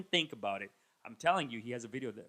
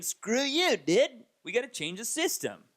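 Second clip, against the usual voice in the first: much higher, louder rebel cry; defiant shout; 8 semitones higher, 5 dB louder than usual. Retold or imitated. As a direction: yell it at the man. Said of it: "is finally saying".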